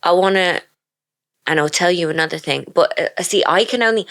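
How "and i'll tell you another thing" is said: lightly put-on London accent; understated mock London accent. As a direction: try a London accent at normal pitch. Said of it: "it always starts off London".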